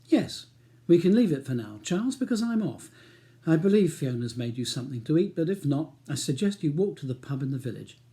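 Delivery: brisk, cool, clipped; wife leaving, dismissive; curt dismissal. Acted. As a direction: brush him off.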